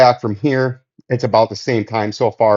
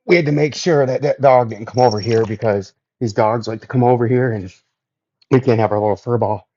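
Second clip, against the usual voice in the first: out of breath. Real, not acted. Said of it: "Whew, I'm out of breath".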